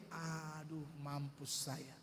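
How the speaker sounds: hushed, dread-filled aside to himself; frightened inner thought. Retold or imitated. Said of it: "saya berpikir". (bisikan hati yang ketakutan, lebih pelan)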